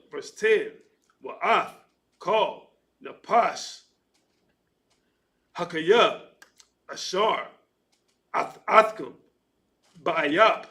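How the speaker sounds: slow, deliberate recitation of Hebrew verses; scripture reading. Acted. Reader recites Genesis in Hebrew to class, deliberate recitation. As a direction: sound out each ancient word with care.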